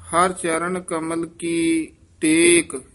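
ਟੇਕ held and closed before a pause; phrase falls to a stop on ਟੇਕ; pause after phrase. Shown as a demonstration. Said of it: "ਇੱਥੇ ਵਿਸਰਾਮ ਹੈ".

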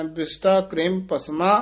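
ਕਰੇਮ with the r carrying an i-vowel, said kreem not kirm; correct pronunciation. Shown as a demonstration. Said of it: "ਰਾਰੇ ਨੂੰ ਸਿਹਾਰੀ ਲਾ ਕੇ ਬੋਲਣਾ ਹੈ".

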